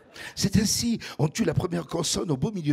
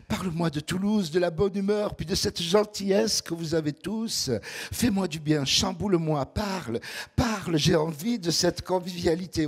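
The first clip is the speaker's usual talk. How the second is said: imitating the girl; 3 semitones higher than usual. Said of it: "Et elle continue".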